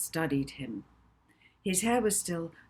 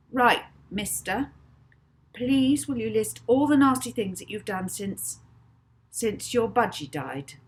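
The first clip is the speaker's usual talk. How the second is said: stern; 6 semitones higher, 7 dB louder than usual. A narrator's reading. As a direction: demand an answer. Molly demands a confession.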